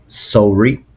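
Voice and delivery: sorry as "soh-ree"; Canadian pronunciation. Shown as a demonstration. Teacher showing how Canadians pronounce sorry, rounded "oh". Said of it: "In Canadian accent, they pronounce like".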